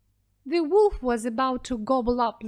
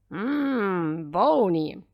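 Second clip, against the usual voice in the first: wolf; 3 semitones lower, 3 dB louder, much slower than usual. A narrator's reading. Wolf tasting grandmother.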